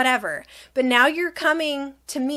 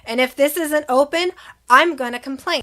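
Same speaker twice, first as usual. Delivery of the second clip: firm warning; 4 dB louder than usual. Retold or imitated. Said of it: "But I was like".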